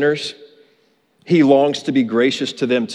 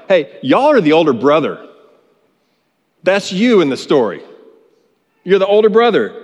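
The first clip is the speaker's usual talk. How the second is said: preaching rebuke; 2 semitones higher than usual. Retold or imitated. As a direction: press it on them as their accuser. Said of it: "Jesus is saying to them right now".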